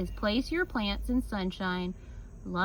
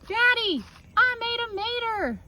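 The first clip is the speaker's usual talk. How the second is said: high, loud excited call to Daddy; thrilled kid shouting her news; excited child; 12 semitones higher, 4 dB louder than usual. Acted. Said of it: "I ask".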